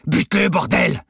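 high, loud command to kill; barked order. A narrator's reading. Robber orders hesitating accomplice to shoot, yelled command. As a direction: shout the order, out of patience. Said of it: "ordonna le braqueur".

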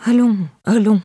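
soothing, lightly acted comfort; gentle voice. A narrator's reading. Irène comforts the crying Carla, gently soothing. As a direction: coax gently, as with a fearful child. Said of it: "dit Irène d'une voix douce".

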